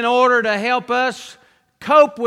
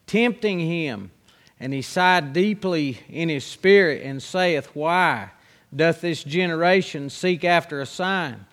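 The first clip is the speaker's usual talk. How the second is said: lower, measured Bible reading voice; scripture reading; 3 semitones lower than usual. Acted. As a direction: read the King James verses like a preacher at the pulpit. Reads scripture aloud at length.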